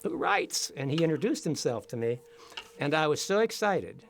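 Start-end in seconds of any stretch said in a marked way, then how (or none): 0.0-0.7 put-on high, light Austrian accent; imitating an old Austrian gentleman. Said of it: "he said in his Austrian accent".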